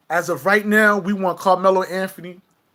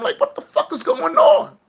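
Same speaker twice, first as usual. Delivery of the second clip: high squeaky voice; 5 dB louder than usual. Pretend. Vlogger hamming it up for his viewers in a squeaky high voice. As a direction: jump way up into a squeaky, louder falsetto. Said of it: "y'all like when I talk like this".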